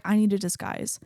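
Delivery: lightly voiced, matter-of-fact statement; understated retold line, falling at the end; Thor. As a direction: state it simply at an everyday pitch. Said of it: "Thor's like".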